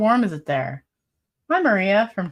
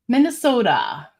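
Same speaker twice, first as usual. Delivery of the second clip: slow, higher Minnesota accent on Minnesota with long open o; 4 semitones higher than usual. Shown as a demonstration. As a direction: drawl out Minnesota the Minnesota way. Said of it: "I hope I say it with the Minnesota accent".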